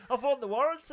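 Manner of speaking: high, loud giggly misspeak; laughing slip. Real, not acted. Speaker tripping over lottery line, laughing. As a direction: laugh through the blunder.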